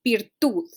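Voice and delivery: "virtud" with stressed final TUD; teacher demonstrating "virtud" with end stress; stress on last syllable. Shown as a demonstration. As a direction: say "virtud" leaning on the closing TUD. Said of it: "the stress is in the last syllable".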